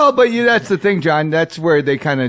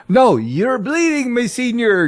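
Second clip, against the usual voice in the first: slow, high pretend-olde voice; mock medieval vendor; 6 semitones higher, slower than usual. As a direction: play the stall keeper in character. Acted Ren fair vendor.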